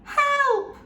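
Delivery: high, loud cry for help; shout for help. Acted. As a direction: call out in panic. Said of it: "shouted Pearl".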